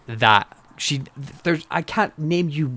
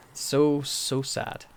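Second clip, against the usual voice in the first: much softer, dropping away; quiet lament; 7 dB quieter, much slower than usual. Real, not acted. Fan lamenting the bad material she's given, hushed.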